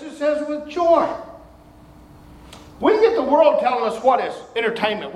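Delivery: normal talking voice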